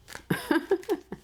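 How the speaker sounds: short high-pitched giggle. Real, not acted. Tarot reader amused by the other person's downfall, high giggle. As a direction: let a sudden high giggle escape. Laughs after "including them.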